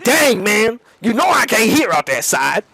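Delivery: mildly mean, put-upon retort; mock demeaning. Shown as a demonstration. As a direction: act out a snippy, demeaning comeback. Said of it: "she didn't say it in a mean, demeaning way".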